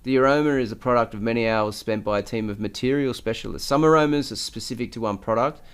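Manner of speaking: steady article read; reading aloud. Acted. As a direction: read it out like a news piece.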